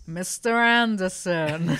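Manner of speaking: slow, drawn-out menacing villain; lightly voiced sinister agent, slowed right down; Hugo Weaving impression. Shown as a demonstration. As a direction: lean into each syllable like a cold movie villain. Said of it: "give me your best Mister Anderson right now".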